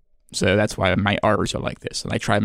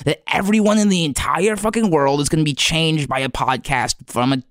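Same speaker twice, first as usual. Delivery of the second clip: upset; 5 semitones higher than usual. Real, not acted. Upset rant about the podcast.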